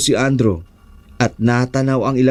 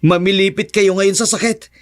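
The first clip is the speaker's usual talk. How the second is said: high-pitched, defiant threats; frightened but fighting young man; embattled hero; 8 semitones higher than usual. Acted. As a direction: dare the monsters to come closer. Andrew threatens the aswang.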